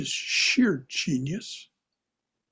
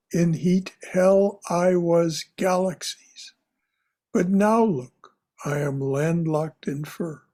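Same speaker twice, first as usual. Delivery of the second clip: slow emphatic poem reading; slower than usual. Shown as a demonstration. Teacher reading the full stanza to the class, slow and emphatic. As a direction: lean into every line, unhurried. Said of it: "read slowly and with emphasis".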